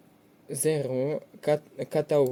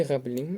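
граблі with the final лі stressed; stress on second syllable. Shown as a demonstration. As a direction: put the weight on лі in граблі. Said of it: "падає наголос тільки на другий склад".

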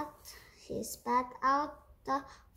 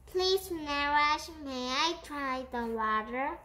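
little voice; 3 semitones higher than usual. Acted. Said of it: "a little voice peeped out".

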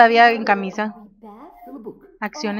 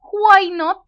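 playful whisper; 7 semitones higher than usual. Real, not acted. Playful reaction to the option.

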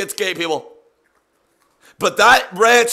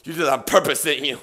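quiet accusation; 6 semitones lower, 6 dB quieter, faster than usual. Real, not acted. Quiet accusation after noise.

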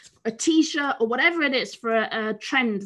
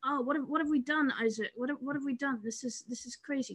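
quiet aside; 10 dB quieter, faster than usual. Real, not acted. Tech trouble, quiet aside.

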